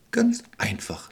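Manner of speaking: slow, calm reassurance. Acted. Expert answers the witch, slow and calm. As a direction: settle it calmly and slowly. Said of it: "antwortete er ruhig".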